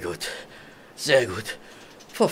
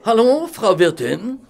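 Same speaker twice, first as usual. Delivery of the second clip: calling out; 12 semitones higher, 5 dB louder than usual. Acted. Calling the landlady in inn.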